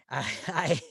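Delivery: ordinary talk, nothing marked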